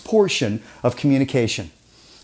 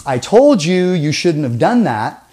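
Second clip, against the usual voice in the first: TOLD hit and falling, a touch louder; stress on told; 4 dB louder than usual. Shown as a demonstration. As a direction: lean on the word told. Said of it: "that means one thing".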